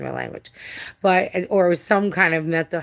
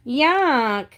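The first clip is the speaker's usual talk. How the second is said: mock disgust; 8 semitones higher than usual. Real, not acted. Reacting to cat's habit.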